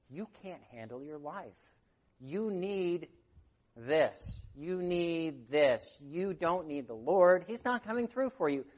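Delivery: lightly voiced tempter undermining faith; Satan's lie. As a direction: coax doubt, drawing it out. Voicing Satan's lies.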